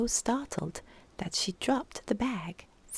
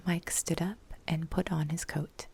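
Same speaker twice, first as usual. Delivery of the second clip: whispered narration. A narrator's reading. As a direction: breathe the story in a whisper.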